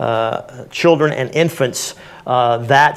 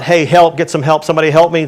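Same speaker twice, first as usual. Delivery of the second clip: mock yell for help, raised and louder; demonstrated yell for help; 3 semitones higher, 5 dB louder than usual. Instructor showing a group how to summon bystanders, mock yell. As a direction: call out for help, only half shouting. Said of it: "yell out".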